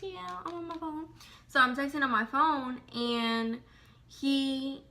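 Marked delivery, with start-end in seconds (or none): 0.0-1.1 dismissive. Retold or imitated. Dismissive reply in car.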